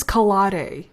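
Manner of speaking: calare with a flat American d-sound, no stress; mocking bad Spanish. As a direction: mimic the narrator's lazy calare. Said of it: "he says calare".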